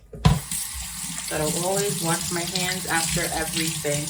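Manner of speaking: slow, relaxed Jamaican patois accent. Shown as a demonstration. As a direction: slip into your Jamaican patois, taking it slow. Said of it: "that's my patois".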